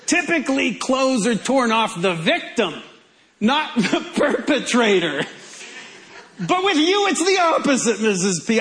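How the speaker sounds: lightly voiced detective musing, starting high; a hint of a TV detective cornering a suspect; Columbo. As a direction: play the puzzled detective with some amusement. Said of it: "it just sounds like a Columbo line".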